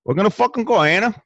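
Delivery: loud, slow drawn-out hype; hype shout. Acted. Host hyping up the viewers, loud stretched shout. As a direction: roar the catchphrase like a pumped host.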